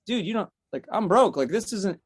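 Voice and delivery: high-pitched mock pleading; acted-out plea, voice pushed up. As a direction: protest to someone turning you away. Acted plea after being turned away.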